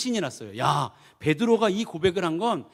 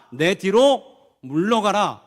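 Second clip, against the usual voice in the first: slow, loud, drawn-out command; a heavy, deliberate rebuke; slow stern rebuke; 6 dB louder, much slower than usual. Acted. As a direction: cast him back with authority. Jesus rebukes Peter.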